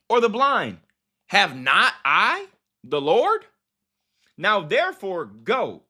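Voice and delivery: slow, emphatic Bible reading; deliberate, forceful reading of the verse; scripture reading. A narrator's reading. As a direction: punch each question as you read. Reads scripture aloud.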